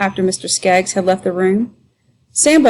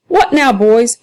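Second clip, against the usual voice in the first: raised commanding call; stern keeper; 3 semitones higher, 4 dB louder, slower than usual. Acted. The keeper breaking up the brawl, raised voice. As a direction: break up the fight.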